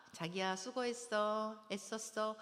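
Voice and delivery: slow, sweet welcome; acted tender wife. Wife greeting husband home from work, acted tenderness. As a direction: soothe him with drawn-out praise.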